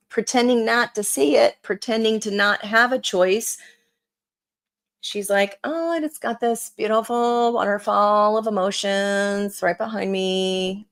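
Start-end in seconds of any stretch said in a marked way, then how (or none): 5.6-10.9 odd put-on voice. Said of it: "I don't know why I'm talking like this".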